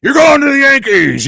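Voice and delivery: loud, high, drawn-out proclamation; slow, hollered good-news reveal; mock excited announcement. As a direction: shout the big surprise like the coach. Coach springs the good news.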